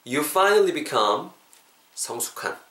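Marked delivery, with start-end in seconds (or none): 0.1-1.3 very slow, stretched words; slow demo. Shown as a demonstration. Teacher models the phrase slowly for the class. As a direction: drag it out so they can follow. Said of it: "제 턴으로 다시 한번 짜서 해볼게요".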